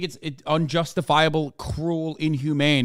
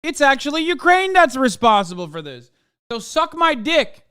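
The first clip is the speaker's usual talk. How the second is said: higher, louder hammed-up mock of the paper; mocking retold retort; 10 semitones higher, 8 dB louder than usual. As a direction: shout it back as a smug, hammed-up newspaper. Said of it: "The New York Times turned around and said".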